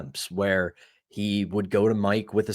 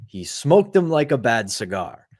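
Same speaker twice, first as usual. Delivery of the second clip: lightly imitated broken-English accent; a hint of broken English, retold; Jagr's broken-English accent; 2 semitones higher than usual. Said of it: "in his broken English, with his accent, through laughter".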